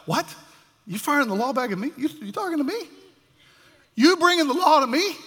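can't believe he's being challenged; indignant surprise. Retold or imitated. Lawyer shocked Jesus turns the law back on him, incredulous.

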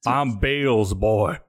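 put-on slow, drawn-out Southern accent. Customer bluffing the boatman about his father, slow Southern accent. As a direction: claim it in a careful country accent. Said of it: "trouble being consistent with accents".

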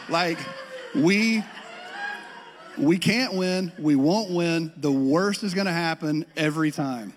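mock pessimist fan. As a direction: play the hopeless fan who expects the worst. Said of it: "orphan spirit sports fan".

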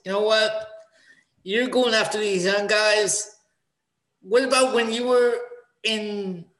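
wrestling promo. Pretend. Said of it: "I want you to cut a promo right now".

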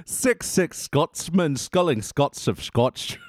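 put-on slow tongue twister in a light Scottish accent. Friend tries the twister, mild Scottish accent. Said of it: "In Scottish".

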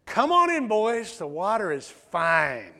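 hammed-up Southern invitation, last words drawn out; Delmar's Southern accent. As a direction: call your buddies over in a Southern twang. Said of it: "I'm trying to do the accent".

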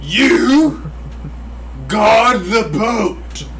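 lightly voiced dumb orc; dopey cartoon bellow. Orc orders Pierre.

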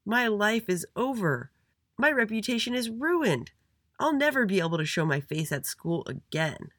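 high-pitched melodramatic despair; mild mock scream. A narrator's reading. Little Andy has lost his badge, mock screaming. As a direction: wail it lightly, as if life is over. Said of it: "and screamed".

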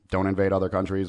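flat robot voice reading a rule. Acted. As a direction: read it like a robot, no feeling. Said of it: "read in a robotic voice like you were".

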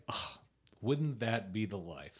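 slow, soft sighing wish; wistful daydream. Retold or imitated. Co-host voices a woman dreaming of the perfect life, wistful. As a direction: sigh it out slowly and softly, dreaming.

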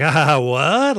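exaggerated surprise; mock bafflement. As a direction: act thrown for a loop. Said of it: "I was really thrown by it".

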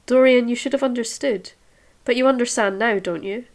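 mild, drawn-out tenderness on his name; tender lingering. Acted. Sybil answering Dorian lovingly, a touch of tender lingering. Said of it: "lingering over his name with long drawn-out music".

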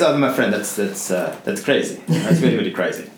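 lightly put-on Italian accent, hinted not full; a touch of Italian accent for the shepherd, kept light; mock Italian accent. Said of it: "he sounds Italian at this point".

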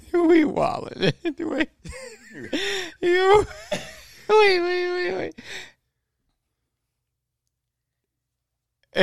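high squeaky laughing words. Real, not acted. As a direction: laugh through every wait. Cracking up at arrival.

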